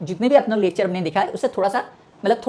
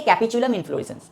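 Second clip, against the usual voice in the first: Capitulum inflorescence said slowly, each syllable drawn out; spelled out slowly; much slower than usual. Shown as a demonstration. Teacher to students, repeating the new term slowly. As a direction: stretch out Capitulum so students catch it. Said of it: "क्या बोलेंगे?".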